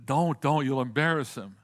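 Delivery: a wife's hurried, urgent don't; pleading wife. Retold or imitated. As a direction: grab his arm and beg him not to. Wife pleading to stop husband.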